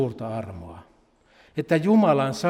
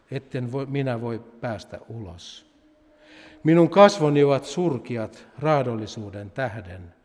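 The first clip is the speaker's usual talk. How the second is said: solemn scripture reading. Acted. Reads psalm 88 aloud.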